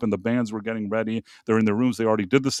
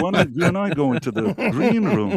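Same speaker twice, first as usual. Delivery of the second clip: sly, teasing offer in a different voice; mischievous invite; 3 semitones higher than usual. Retold or imitated. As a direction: tempt him, like trouble is coming. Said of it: "mischievous look on his face".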